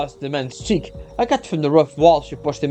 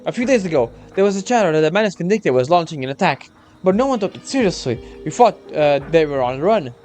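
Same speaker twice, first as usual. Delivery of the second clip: lightly raised earnest soldier; young soldier voice; 2 semitones higher than usual. Acted. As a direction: explain urgently, a hint of nerves.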